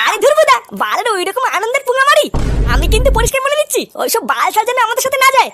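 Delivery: angry scolding. Acted. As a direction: snap at the old man to stay home. Scolding the old man.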